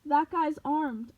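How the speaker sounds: slow, high, loud alarm; alarmed cop. Acted. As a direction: warn the others urgently.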